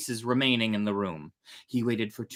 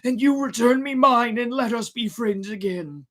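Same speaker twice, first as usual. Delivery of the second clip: mild mock scream; 11 semitones higher, 5 dB louder than usual. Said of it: "screamed Master Cherry".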